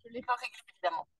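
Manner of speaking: faint, far-off crackling connection; speaking from far away on a bad line; crackly distant audio. Real, not acted. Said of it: "c'est comme si on t'entendait plus loin".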